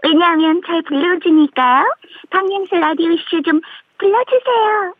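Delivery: voice-disguised anonymous caller; altered voice for anonymity; vocoder. Acted. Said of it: "제가 음성 변조로 하고 싶은 말이 있어요". (음성 변조 목소리)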